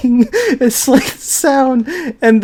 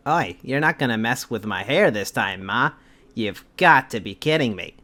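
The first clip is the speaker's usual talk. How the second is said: quiet; 10 semitones lower, 13 dB quieter than usual. Acted. Reading line in character.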